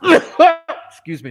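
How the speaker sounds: a real sneeze bursting out; big sneeze. Real, not acted. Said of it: "that was a huge sneeze".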